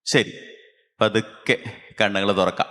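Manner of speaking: measured meditation voice with long pauses; guided meditation. Real, not acted. Teacher bringing children out of meditation, measured guiding voice. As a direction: ease them out of meditation, phrase by phrase.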